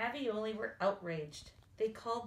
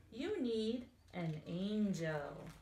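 heavenly voice; slower than usual. Acted. Heavenly voice speaks from conveyor.

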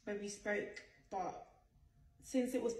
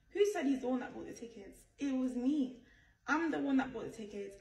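indignant; 4 semitones higher, 6 dB louder than usual. Real, not acted. Indignant reply to rumours.

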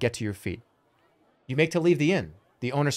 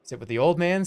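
put-on old man voice; 3 semitones higher than usual. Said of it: "Two voice".

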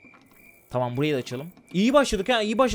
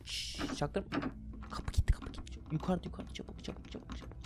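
whispering; 3 semitones lower, 17 dB quieter than usual. Real, not acted. Hiding from Granny, whispering.

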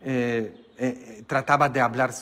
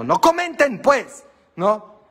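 playful plea; 9 semitones higher, 7 dB louder, slower than usual. Real, not acted. Joking plea to congregation.

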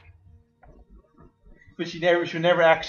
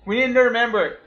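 gruff soldier voice; 2 semitones higher, 3 dB louder than usual. Pretend. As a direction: bark it like a crude army sergeant. Voicing soldier recruiting Jill.

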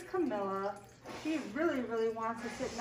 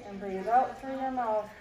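slow guiding voice. Shown as a demonstration. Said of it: "Breathe in through your nose".

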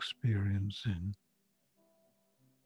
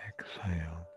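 whispering; 5 semitones lower, 12 dB quieter than usual. Acted. Breathing cue in meditation.

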